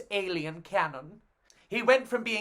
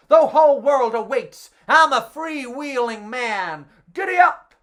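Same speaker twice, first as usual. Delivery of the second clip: high, loud whooping escapee; excited cheer; 4 semitones higher, 7 dB louder than usual. Acted. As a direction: shout it like a joyride.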